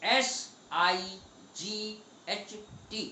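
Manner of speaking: letter by letter, with gaps; spelling out. Shown as a demonstration. Teacher spelling the right word for students, letter by letter. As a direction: spell it slowly, each letter separate.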